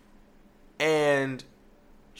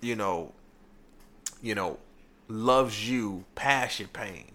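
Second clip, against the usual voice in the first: soft tender quote; 5 semitones lower than usual. Retold or imitated. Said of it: "told Wendy that".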